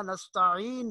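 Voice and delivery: نستعین with a squeezed ع; correct ain. Shown as a demonstration. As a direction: sound the ain in نستعین from mid-throat. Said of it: "پڑھنا ہے". (نستعین میں حلق سے عین)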